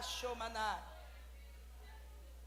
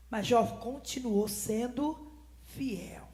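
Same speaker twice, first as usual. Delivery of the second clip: whisper; 4 semitones lower, 6 dB quieter, much slower than usual. Acted. Sermon drops to hushed line.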